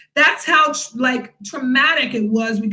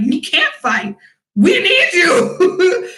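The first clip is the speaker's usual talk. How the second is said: mock pleading, laughing; 5 semitones higher, 3 dB louder, much slower than usual. Friends begging her not fight.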